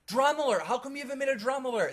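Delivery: lightly voiced fan; imitating a fan. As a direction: rush it like a pushy fan. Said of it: "Other people be like".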